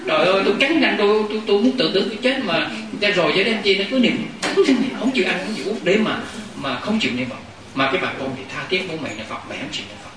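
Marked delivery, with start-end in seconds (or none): 0.1-7.4 high, stretched wail at the start, then a pleading complaint; hammed-up lament of a stubborn old patient; old mother wailing. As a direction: wail like a bedridden mother calling the whole village for help. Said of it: "bà la".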